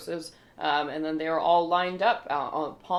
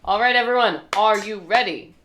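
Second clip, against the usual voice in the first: quiz host; 4 semitones higher, 8 dB louder than usual. Acted. MC addresses the quiz crowd.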